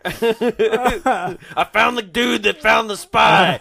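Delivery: slow, drawn-out Texas drawl; hammed-up Texan announcing his discovery; laughing through a put-on Texas drawl; mock Texas accent. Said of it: "he has the Tex accent".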